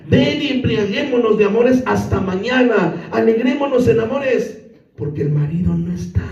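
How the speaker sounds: seductress voice. Acted. Seductress's invitation read aloud.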